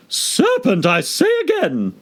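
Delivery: insisting, but calmer; subdued pigeon. Acted. Pigeon repeating its charge at Alice, subdued. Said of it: "but in a more subdued tone".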